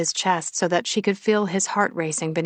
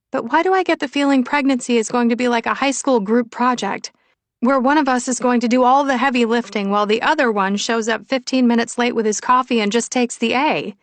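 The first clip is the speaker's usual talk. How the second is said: higher, louder woman's voice; wryly complaining Willow; 5 semitones higher, 5 dB louder than usual. Acted. Willow foresees doing all the pregnancy work, wry complaint. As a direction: grumble it emphatically, pitch kept up.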